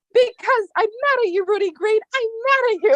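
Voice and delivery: mock-British, drunkenly indignant; hammed-up British accent, mock cross; tipsy British accent. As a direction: put on a sloshed British accent at Rudy. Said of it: "in a British accent".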